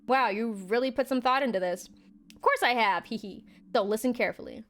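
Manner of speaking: chewing while talking; mouth full. Real, not acted. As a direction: speak around a mouthful. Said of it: "I put more food in my mouth".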